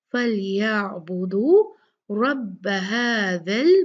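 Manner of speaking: फलयाबुदू slow with बू held two counts; slow fal-ya-buu-du; two-count stretch. Shown as a demonstration. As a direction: draw the बू in फलयाबुदू for two beats. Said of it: "दो count आपने".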